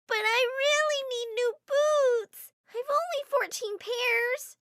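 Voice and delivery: put-on high, slow pleading child voice; spoiled whiny girl. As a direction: whine like a spoiled kid. Spoiled niece whines.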